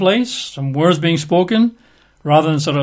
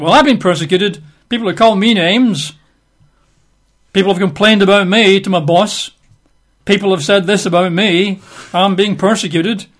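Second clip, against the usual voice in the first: raised-pitch complaint of a self-styled martyr; mock aggrieved; 4 semitones higher, 3 dB louder than usual. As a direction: play someone protesting their persecution. Voices a self-styled persecuted believer.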